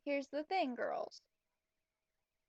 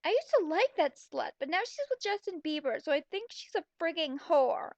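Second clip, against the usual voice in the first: louder, with a catty edge; loud gossip in class; said loudly; 4 dB louder than usual. Acted. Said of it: "I said loudly".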